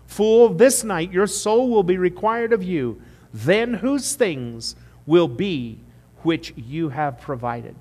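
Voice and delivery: loud and slow, solemn rebuke; God rebuking the rich fool, solemn and slow; God's rebuke. Acted. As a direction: pronounce it slowly like a verdict. Preacher voicing God's judgment.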